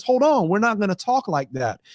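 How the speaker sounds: sitting someone down. Acted. The other voice sitting the bully voice down, mildly firm. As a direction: play the voice that puts its foot down. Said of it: "be the other voice that sits that voice down".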